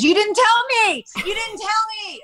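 high, whiny mock protest; teasing imitation of Pepe's whiny denial; whiny husband. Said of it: "And he goes".

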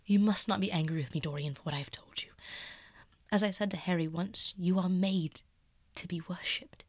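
lightly voiced painter, half-hushed and earnest. Basil confessing to Dorian, hushed and earnest.

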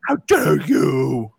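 slow, drawn-out mock outrage; hammed-up scolding scream in a put-on voice. Parent playfully berating a kid up close, mock scream.

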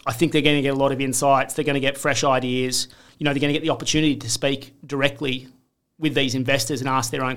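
breathless after a long run of talk; talking while short of breath. Real, not acted. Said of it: "I'm out of breath".

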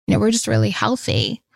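hammed-up American celebrity accent; bad American accent. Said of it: "bad American accent just then".

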